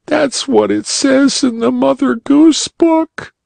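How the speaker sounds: put-on little girl voice. A narrator's reading. Polly Flinders answers the bunny uncle, high and childlike. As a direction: pipe up like a small girl.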